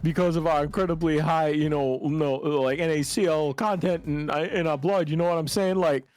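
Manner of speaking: lightly hammed-up character patter; noodle seller character. Noodle man explains his family's strokes, hammy insistence. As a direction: explain earnestly, punching the family history.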